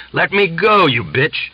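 put-on old man fighting her off, high furious shout; struggling angry cry. A narrator's reading. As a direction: shout it while wrestling free. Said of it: "the old man struggled".

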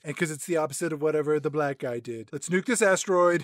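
satirical president, monotone and self-assured; mock president. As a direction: deliver it as a pompous mock president. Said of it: "we cut over the president".

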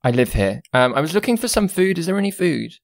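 put-on high, pompous pouting boy lord; Lord Oskin, pouting. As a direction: announce yourself through pursed lips.

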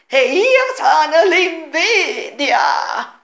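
very slow personified line that breaks into laughter; slow mock proclamation dissolving into giggles; voice of Envy. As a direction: try to play Envy but crack up laughing. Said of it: "immagino la voce dell'odio, dell'amore, dell'invidia".

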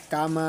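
"কামা" with a very long final vowel; short "কা", endlessly drawn "মা"; three-alif elongation. Shown as a demonstration. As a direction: hold the "মা" of "কামা" on one note. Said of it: "এখানে তিন আলিফ পরিমাণ টানতে হবে".

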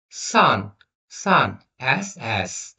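সান and এস with a plain hissed s; pronunciation demo. Shown as a demonstration. Teacher contrasting two sounds of s, pronunciation demo of সান. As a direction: model সান slowly with s, not sh. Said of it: "উচ্চারণ করতেছি".

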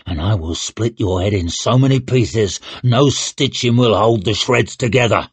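growled warning; snarled threat. Acted. Shivers threatening to split her head, snarled. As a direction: carry the menace to the end. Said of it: "snarled Shivers".

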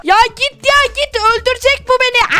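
high frantic shout, fleeing; being chased. Acted. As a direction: yell as if running for your life. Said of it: "beni kovalıyor".

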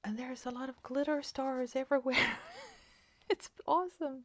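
thrilled by the glitter; excited. Real, not acted. Opening the card full of glitter stars, gasping excited delight.

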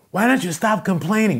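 loud, high, exasperated yell; yelling dad. Retold or imitated. Dad scolding his complaining son, yelling. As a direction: holler it like a fed-up dad. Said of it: "the dad's yelling".

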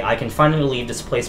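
measured, dramatic diary narration; diary read-aloud. Acted. Player reading George Walker's found diary to viewers, dramatic read-aloud.

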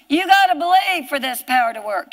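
emphatic pulpit exhortation; fervent preaching. Real, not acted. Preacher urging congregation to believe, fervent exhortation. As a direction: press it on the listeners with conviction.

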